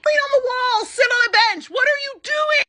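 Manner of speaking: high, loud, disbelieving outburst; exasperated yell at the screen. Real, not acted. Recapper yelling at the character on screen, exasperated. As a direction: shout it at the TV like she can't believe it.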